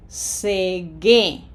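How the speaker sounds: "Cegué" with stress on GUÉ; accented final syllable. Shown as a demonstration. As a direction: lengthen "Cegué", landing on the last syllable. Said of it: "Graphic accent".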